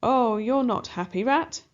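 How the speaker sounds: mock the rat cruelly; a hint of sneering villain cats; wicked cats mocking. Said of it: "the wicked cats answer".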